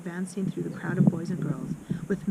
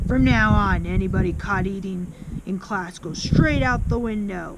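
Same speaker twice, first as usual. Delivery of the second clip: louder, a stern headmistress laying down the law; imitating the Trunchbull; 6 dB louder than usual. Boy quoting the headmistress's threat to the class, loud mock sternness. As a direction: bark the rule at the class.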